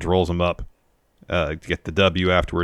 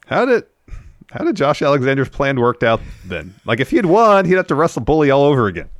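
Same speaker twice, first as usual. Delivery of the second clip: incredulous; 8 semitones higher, 5 dB louder than usual. Real, not acted. Baffled rant about wrestling logic.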